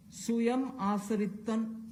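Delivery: "Suyam Asarittan" said slowly in Malayalam; "Suyam Asarittan" with Malayalam sounds; Malayalam word. Shown as a demonstration. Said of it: "I'll just say what it means".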